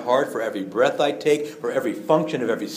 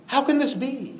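high, bewildered asking of how this can be; the disciples can't grasp it, voiced high and puzzled; baffled disbelief; 11 semitones higher than usual. Disciples struggling to understand Jesus, asking in high bewilderment.

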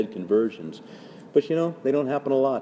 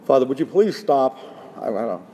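mock pleading listener; 2 semitones higher than usual. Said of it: "So, okay, well".

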